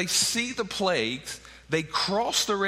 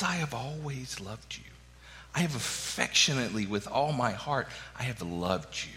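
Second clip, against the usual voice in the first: tender; 5 semitones lower, 5 dB quieter than usual. Acted. God's tender words quoted.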